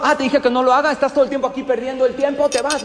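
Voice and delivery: a boss yells at his manager and fires him; yelling. Acted. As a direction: fire him in a huff. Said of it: "le empieza a gritar".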